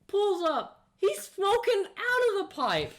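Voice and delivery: high, loud, laughing retelling; excited laughing. Real, not acted. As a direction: blurt it out, cracking up.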